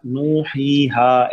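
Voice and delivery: "नू, ही, हा" with vowels held two counts; two-count madd. Shown as a demonstration. Teacher explaining recitation to a student, two-count held vowels. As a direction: stretch "नू, ही, हा" evenly, not too far. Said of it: "अगर आप इसको दो हरकत".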